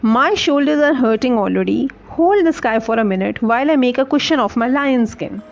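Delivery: slow, careful read-aloud for students; slow storybook reading. A narrator's reading. Teacher reading the story to her class slowly.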